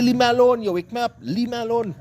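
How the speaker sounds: high-pitched vexed scolding, retold; cussing. Man to the cat that woke him, retold cussing. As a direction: act out snapping at a pesky animal. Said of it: "I cussing him, eh? I say".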